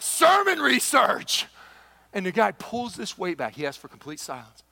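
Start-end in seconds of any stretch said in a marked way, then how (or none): 0.0-1.5 deadpan excuse. Retold or imitated. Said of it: "I'm like".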